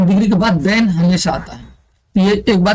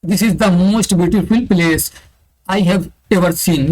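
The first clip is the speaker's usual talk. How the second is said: slow dictation reading; much slower than usual. Shown as a demonstration. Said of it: "reading the English sentence aloud".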